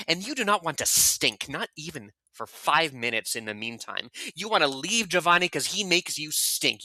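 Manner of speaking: lightly voiced Giovanni, scornful tirade. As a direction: lay into him with contempt. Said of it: "you're gonna be Giovanni".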